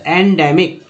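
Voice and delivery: "एंडेमिक" starting with en; correct pronunciation. Shown as a demonstration. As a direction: say "एंडेमिक" as en-DEM-ik. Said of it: "ई का उच्चारण यहाँ पर ए के रूप में".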